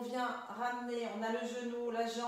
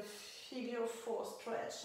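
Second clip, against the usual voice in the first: English exercise name in the teacher's own accent; self-mocked English accent; 4 dB quieter, much slower than usual. Real, not acted. Yoga teacher naming the stretch in English for French students, self-mocked English accent. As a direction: say the English term with a playful attempt at an accent. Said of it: "avec mon super accent".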